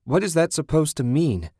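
high, frustrated demand; shouted. A narrator's reading. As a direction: cry out in bewildered anger. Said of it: "she shouted".

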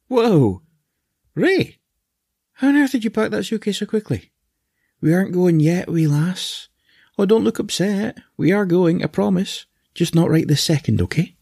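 talking to a pet. Acted. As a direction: coax the cat like a toddler. Talks to cat in higher voice.

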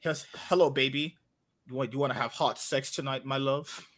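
low seductive lover voice; exaggerated cartoon intonation. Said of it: "Why are you talking like that?".

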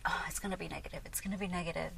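low, soft murmur to herself; self-reassurance. Retold or imitated. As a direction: quietly talk yourself out of worry. Reassuring herself before the ultrasound.

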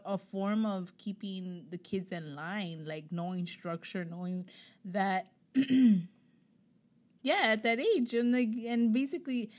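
tired, fading voice; voice giving out. Real, not acted. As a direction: speak through a worn-out voice. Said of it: "I'm losing my voice today".

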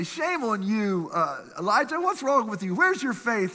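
mock a harsh condemning God; scolding God. Imagined God scolding Elijah, shaming rebuke. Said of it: "You think God would come along and say".

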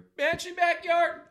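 high, slow, wailing ghost cry; haunting voice. Retold or imitated. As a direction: wail it like a banshee in the yard. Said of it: "when I'm outside and I hear".

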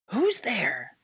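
loud, startled challenge; shout. A narrator's reading. Man spinning round to face the speaker, shouting. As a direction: shout at an unseen intruder. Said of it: "the man shouted".

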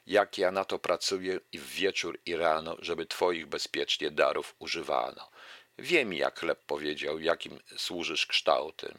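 measured, rhythmic reading of a rhymed fable; verse recitation. Acted. Lecturer reciting a Krasicki fable to the audience, measured verse reading. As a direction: recite it like a poem to a class.

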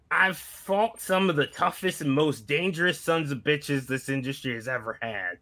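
lightly voiced veteran wrestler's promo; a modest attempt at a battle-worn wrestler; Terry Funk. Host attempting a wrestling legend's promo for friends, lightly impersonated. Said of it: "trying to do a Terry Funk impression".

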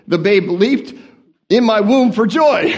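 rereading the verse properly, laughing; corrected reading. Shown as a demonstration. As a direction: fix the line with a laugh. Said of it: "I can't even read the King James correctly".

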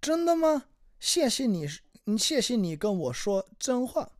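high, surprised reading of the line; mock surprise. Reading the dialogue, a touch of mock surprise. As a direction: act shocked at the bad news.

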